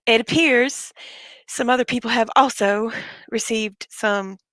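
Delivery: short of breath while talking; winded, pushing words out. Real, not acted. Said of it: "I'm sorry, I'm out of breath".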